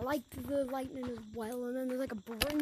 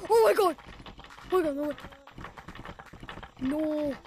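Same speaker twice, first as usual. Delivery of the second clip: shrieking jackpot winner; 3 semitones higher, 10 dB louder than usual. Real, not acted. Thrilled at the returned update.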